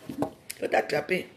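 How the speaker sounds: slow unvoiced whisper; slow menacing whisper aimed at the one who fled; whispered threat. Real, not acted. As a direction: hiss the warning slowly under your breath. Ominous warning to an absent enemy.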